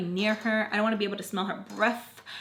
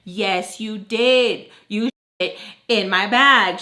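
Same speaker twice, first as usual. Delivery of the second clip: retold accusation; 5 dB louder, much slower than usual. Retold argument with roommate over bag.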